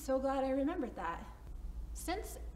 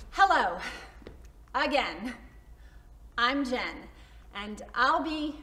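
loud, steadier nervous hello; nervous introduction; 5 dB louder than usual. Acted. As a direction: try the intro once more, still nervous. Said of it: "what did I used to do with all these nerves".

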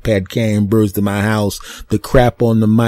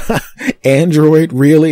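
mocking bird; 7 semitones higher, 6 dB louder than usual. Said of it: "the other bird said".

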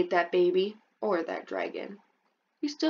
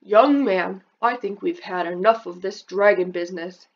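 stern dad; 6 dB louder than usual. Acted. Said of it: "your dad will say".

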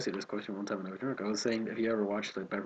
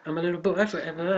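Peter Pan voice; 7 semitones higher, 4 dB louder than usual. Pretend. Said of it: "Peter Pan".

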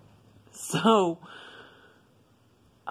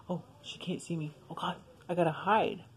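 hushed hiding voice; 6 dB quieter than usual. Retold or imitated. Child hiding from searching mom.

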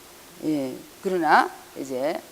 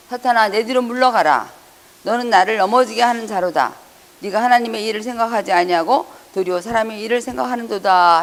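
higher, louder commanding rebuke; stern rebuke; 4 semitones higher, 6 dB louder than usual. Acted. Jesus rebuking Peter, raised and commanding. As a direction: drive Satan back with authority.

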